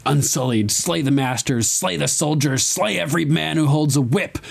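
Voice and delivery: a hint of a commanding queen; queen giving orders. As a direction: recite a rousing order, rising with each clause. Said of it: "that's when she says".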